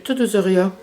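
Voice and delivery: "Surya" said Acadian-style as "sɔʀia", a slip of Acadian accent. Real, not acted. Vlogger raving about her café, Acadian accent slipping out. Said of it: "Mon accent acadien sorti".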